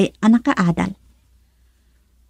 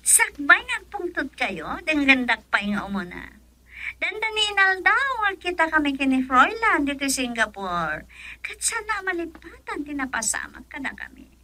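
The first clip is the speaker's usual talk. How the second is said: hushed plea; 4 semitones higher, 9 dB quieter than usual. Acted. Woman pleading with Don Anselmo.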